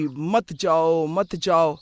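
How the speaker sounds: slow, drawn-out mimicked plea; imitating clingy child. Aunt recalling her nephew's childhood, imitating clingy child. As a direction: lightly act a child clinging and pleading. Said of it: "बचपन में तो चिपक जाया करता था".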